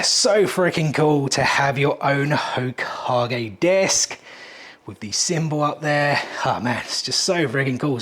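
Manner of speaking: breathless, half-whispered awe; out of breath. Real, not acted. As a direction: gasp the words out between breaths. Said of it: "I am literally out of breath".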